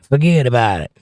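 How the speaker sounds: put-on failed New York accent in a Southern voice; attempted New York accent. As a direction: have a go at New York, staying mostly Southern. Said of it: "my voice is too Southern".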